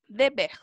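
"Deber" begins "deh", not "dji"; Portuguese dever. Shown as a demonstration. Teacher modelling the Portuguese word, initial DE said "deh". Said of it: "Con B corta en portugués".

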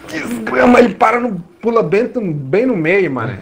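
high, urgent gamer shout; excited yelling. Real, not acted. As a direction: yell the jump instructions. Yelling at partner mid-jump.

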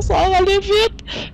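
high, drawn-out urgent yell; yelling across the room. Real, not acted. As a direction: shout at them to hurry out. Urging teammate to get out.

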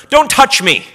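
high, loud, recoiling "Don't touch me"; a prissy, fussy "don't touch me"; mock squeamish. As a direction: play it like someone afraid of cooties. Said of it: "As if Jesus, you know, was afraid of cooties".

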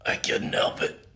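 breathless strained words; gasping between words; out of breath. Real, not acted. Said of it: "I can't talk".

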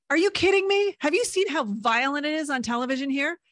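high, loud incredulous protest; indignant outburst. Retold or imitated. Teen arguing with classmates about TV violence, high loud indignant. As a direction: fire it back in disbelief.

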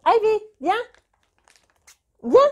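high-pitched call to the cat across the room. Real, not acted. Owner calling her cat Ivy, high and loud. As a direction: sing out her name to fetch her.

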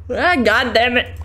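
words pulled out mid yawn. Real, not acted. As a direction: say it while yawning. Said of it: "that's why I'm yawning a bunch".

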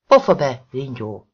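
a hateful snap with a hint of surprise; hateful, surprised. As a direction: spit it back, thrown off by her tone. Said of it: "hangja nem csak gyűlölködő volt, hanem meglepett is".

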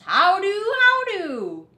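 high chirpy mouse greeting; squeaky mouse. Acted.

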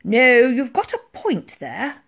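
slow, loud, drawn-out admiral; musing. A narrator's reading. Admiral concedes Titch's point, musing. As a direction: concede it slowly, thinking aloud. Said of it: "mused the Admiral".

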